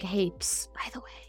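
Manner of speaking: breathy secret whisper. Retold or imitated. Pain quietly hinting to us, whispered. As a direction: psst it under your breath. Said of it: "not whispering to us".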